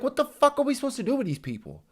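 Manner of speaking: high, fast, flustered squeal; mock panic. Mocking the officials who preached welcome, high and fast mock panic. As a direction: parody officials suddenly overwhelmed. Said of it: "like, motherfucker".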